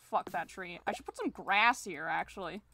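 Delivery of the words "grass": grass with the A vowel stretched and stressed; drawn-out A in grass; emphasis on the A. Real, not acted. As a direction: lean on the A in grass. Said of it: "Why did I say grass with emphasis on the A?".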